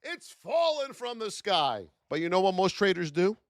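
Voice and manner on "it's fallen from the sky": slow, dreamy, thrilled; a lightly voiced giddy newbie; giddy beginner. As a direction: gush like your first trade just won. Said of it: "they think they're gonna hear this".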